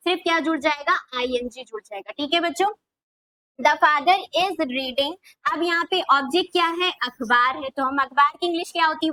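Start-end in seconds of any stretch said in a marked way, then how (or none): 3.6-5.1 very slow, every word stretched apart; slow dictation. Shown as a demonstration. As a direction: say it slowly so children can write it. Teacher dictating English sentence.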